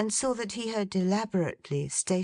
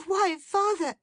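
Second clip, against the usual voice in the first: put-on much higher, light young woman's voice; Meg, young woman; 3 dB louder than usual. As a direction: raise the pitch to play a fond daughter.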